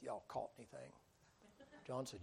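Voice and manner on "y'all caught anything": Peter's soft, sour grumble of "Y'all caught anything?"; a sulky, much softer "Y'all caught anything?" under the breath; grumbled under breath. Acted. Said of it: "Peter grumbles under his breath".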